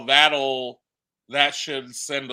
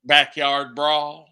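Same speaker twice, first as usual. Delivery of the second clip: Backyard Brawl said louder and slow, spelling it out; repeated clearly; 4 dB louder, slower than usual. Real, not acted. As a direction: repeat it slowly for someone who missed it. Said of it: "What was that?".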